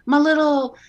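sugary candy pusher's call, high and loud; sing-song pet names, drawn out slowly; Jules. Acted. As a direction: coax the doorman with big, high sweetness. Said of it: "the candy pusher".

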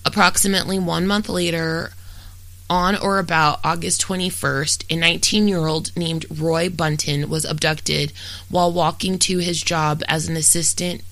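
documentary-style read, even and factual; true-crime narration. Real, not acted. Host reads a murder case to listeners, steady true-crime narration. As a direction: read a prepared case account aloud in steady, fluent sentences.

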